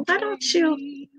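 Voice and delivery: high, slow voice imitating sister; big sister. Big sister suggesting a food page, imitated high and slow. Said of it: "and she's like".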